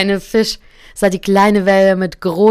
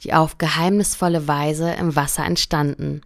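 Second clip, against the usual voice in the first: calm, gentle fairy-tale reading; story narration. A narrator's reading. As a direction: read it like a bedtime story to a listener. Reads a fairy tale aloud. (ruhige Märchenerzählung)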